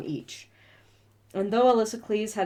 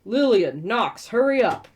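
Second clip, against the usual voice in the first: loud, raised-pitch call down to climbers; 4 semitones higher, 6 dB louder than usual. A narrator's reading. Brullo hurrying the climbers along, calling out. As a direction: call it out sharply, pitch swooping. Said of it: "Brullo called".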